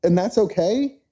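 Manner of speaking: retold incredulity. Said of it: "freaked out at her".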